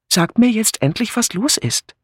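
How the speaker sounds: whiny demand to be told; plaintive call. Acted. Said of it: "rief Philippa klagend". (klagender, höherer Ruf)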